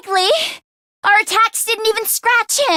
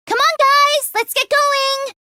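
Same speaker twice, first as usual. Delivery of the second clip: rallying call; 6 semitones higher than usual. Acted. Rallying the group to work.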